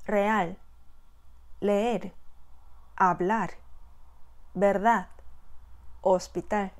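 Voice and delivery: each word read clearly with final-syllable stress; slow model reading, stress on the last syllable; model Spanish words. Shown as a demonstration. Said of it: "한번 읽어볼까요". (마지막 음절에 강세를 두고 또박또박)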